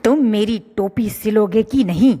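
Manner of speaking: fast, sharp demand; angry mouse. Acted. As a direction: push the question angrily. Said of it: "चूहे को भी गुस्सा आ गया".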